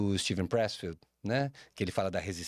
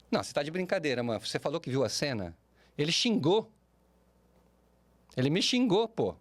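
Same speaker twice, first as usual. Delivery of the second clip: indignant friend; 4 semitones higher than usual. Retold or imitated. Friend defends his yelling.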